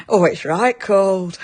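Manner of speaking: slow, lightly played-up Northern English; Northern accent. Shown as a demonstration. Host jokingly shows Peg a slow, mock Northern accent. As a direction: stretch it out in a mild Northern accent. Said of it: "please do your best Northern accent".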